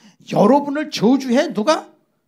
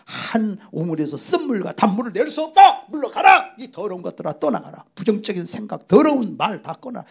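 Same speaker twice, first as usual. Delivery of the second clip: louder, commanding shout on 물러가라; loud rebuke; 4 dB louder than usual. Acted. Believer casting out negative words. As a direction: drive them out with force.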